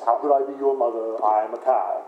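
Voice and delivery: slow, lightly voiced cow, read as to kids; slow storybook cow. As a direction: drawl it out like a picture-book cow. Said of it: "that's how they read kids".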